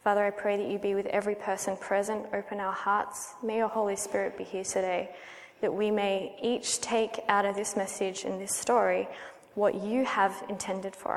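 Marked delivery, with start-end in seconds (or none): none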